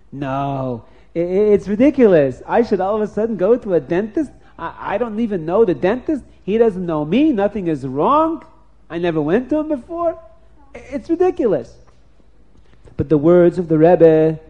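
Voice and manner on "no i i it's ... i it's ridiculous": higher, indignant self-argument; incredulous inner argument. Acted. A traveler arguing himself out of the dentist, incredulous.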